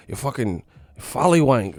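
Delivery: mock British insult; British accent. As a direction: imitate a British heckler. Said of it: "Them U K dudes be going in".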